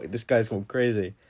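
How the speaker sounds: retold giggle breaking through; stifled laughter. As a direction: try not to laugh as you say it. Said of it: "we're trying not to laugh".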